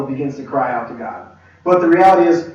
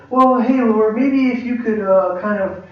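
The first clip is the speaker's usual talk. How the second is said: higher-pitched, roundabout polite request; hesitant asking; 3 semitones higher than usual. Acted. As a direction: hedge and dither over asking a favour. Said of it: "I don't need to go".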